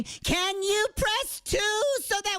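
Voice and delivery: very slow, drawn-out words; slow for hard of hearing. Acted. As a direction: spell it out slowly for someone hard of hearing.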